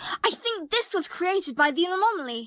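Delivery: plain, straightforward declarative read. A character, after muttering to herself, declares her theory about the threat, louder.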